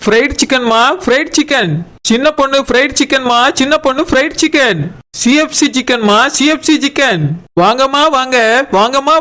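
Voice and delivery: chanting hawker's sales call; singsong street hawker. Acted. Shop owner calling customers in.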